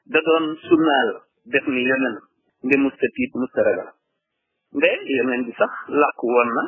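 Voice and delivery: poem lines delivered in short, separated phrases; verse recitation. Acted. Teacher reciting verses about the Prophet, measured recitation. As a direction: declaim each verse, pausing after it.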